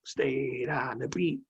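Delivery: hushed emphasis on the point; whispered repeat. Real, not acted. Teacher repeats advice to students in a slow whisper. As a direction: whisper it, slowly.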